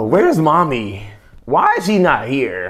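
put-on high, slow little-girl whine asking for mommy. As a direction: lightly voice a small girl asking where her mom is. Imitating the small daughter.

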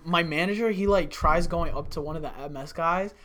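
ordinary talk

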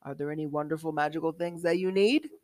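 lightly voiced dwarf salesman; Gander. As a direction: pitch your wares with a touch of showmanship. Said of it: "I'm a salesman".

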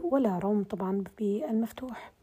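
usual speaking voice

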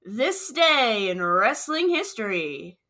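wife's try at the announcer read. Acted. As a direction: give it the big TV-show build. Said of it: "I think you should let me try".

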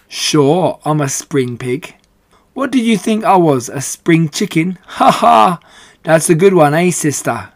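loud, jolly big pig laughing at his own joke; a boisterous, over-familiar Uncle cracking a weak joke; hearty braggart pig. Acted. Uncle the big pig jokes with Charlotte, hearty and loud.

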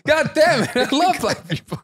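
high-pitched, exasperated laughing outburst; laughing protest. Real, not acted. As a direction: protest through helpless laughter, voice shooting up. Flustered, laughing at teasing.

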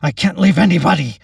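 high, loud, emphatic protest; shouted refusal. A narrator's reading. Captain refusing to abandon anyone, desperate shout. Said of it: "Captain Monroe shouted".

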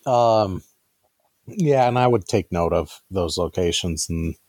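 talking through a mouthful; words round a bite of food; chewing while talking. Real, not acted. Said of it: "Sorry, I'm chewing".

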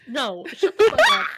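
loud, high, laughing "shut up". Real, not acted. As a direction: crack up and yell it. Cracking up over joke.

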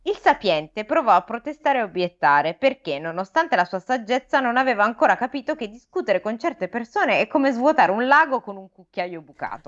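measured read-aloud storytelling; expressive audiobook-style narration; story narration. A narrator's reading. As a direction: read the fable to listeners. Reads the fable aloud.

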